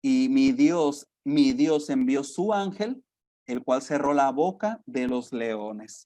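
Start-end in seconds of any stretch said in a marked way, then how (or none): 0.0-1.1 slow, weighty reading of the verse; scripture reading. Shown as a demonstration. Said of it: "Dice el versículo veintidós". 3.5-6.0 slow, weighty reading of the verse; scripture reading. Shown as a demonstration. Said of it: "Dice el versículo veintidós".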